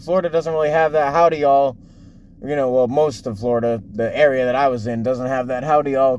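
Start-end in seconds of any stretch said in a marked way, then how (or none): 1.1-1.8 light mock southern accent on "howdy y'all". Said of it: "a southern accent". 5.6-6.2 light mock southern accent on "howdy y'all". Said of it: "kinda accent".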